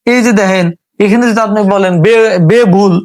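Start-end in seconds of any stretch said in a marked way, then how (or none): 2.1-2.9 বেবুল with e in the first syllable, a little louder; the mistaken reading বেবুল, said deliberately; wrong reading of the word. Shown as a demonstration. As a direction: stress the wrong form বেবুল. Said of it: "উচ্চারণটা ভুল হইব".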